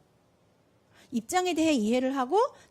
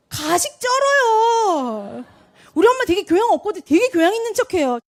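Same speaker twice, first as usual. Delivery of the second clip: son mocking mother; 5 semitones higher, 8 dB louder than usual. Son mocking his mother's fake tone.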